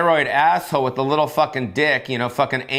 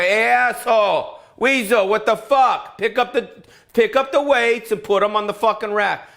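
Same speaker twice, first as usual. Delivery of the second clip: angry yell; 8 semitones higher than usual. Retold or imitated. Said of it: "He goes".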